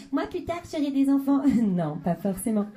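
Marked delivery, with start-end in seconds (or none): 0.1-1.4 put-on high, chirpy little girl. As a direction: play a dreamy little girl. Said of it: "quand elles disent". (voix de petite fille)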